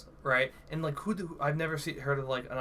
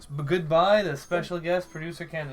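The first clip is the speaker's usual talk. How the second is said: whiny high goodbye; whining goodbye to the departing dog; mock whining; 3 semitones higher, 5 dB louder than usual. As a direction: whine like a sad child. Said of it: "Why are you whining?".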